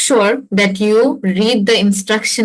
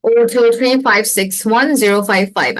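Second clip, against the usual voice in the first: slow, even dictation of each digit; slow exam-recording dictation; recording reading a number; much slower than usual. Shown as a demonstration. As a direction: spell the digits out one by one like a test recording. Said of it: "ওরা বলবে".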